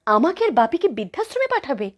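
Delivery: high, incredulous question; shocked disbelief. Acted. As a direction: ask it aghast, pitch swooping up. Shocked at child's plan.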